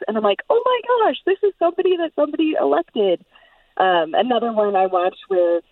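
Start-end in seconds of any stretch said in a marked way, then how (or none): 0.5-3.3 high-pitched mock disbelief; retold shock. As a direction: recall your appalled reaction, pitch leaping up. Retelling her shock at an official.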